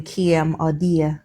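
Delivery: slow "kiem" and "dear", A turned to an ear glide; "kiem or dear", the long A broken into an ear sound; Jamaican A sound. Shown as a demonstration. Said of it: "the A sound and the O sound".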